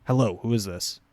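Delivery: brisk and impatient; a suspicious stranger picking up; curt caller. Retold or imitated. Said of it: "If they answer".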